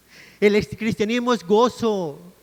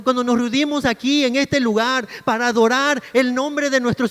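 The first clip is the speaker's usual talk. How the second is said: raised, forceful sermon voice; impassioned preaching; 2 semitones higher, 4 dB louder than usual. Real, not acted. Preacher admonishes the congregation about gloomy worship, impassioned. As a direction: press the point home to the congregation.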